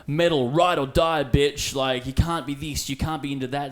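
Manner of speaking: loud, high mocking teenage snobbery; mock metal-kid attitude. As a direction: sneer it like a metal purist. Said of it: "it was like".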